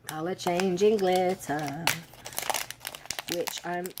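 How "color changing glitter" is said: "Color changing glitter" slowly drawn out; slow savouring repeat. Real, not acted. Vlogger repeating the glitter's name, slowly savoured. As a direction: linger over "changing glitter".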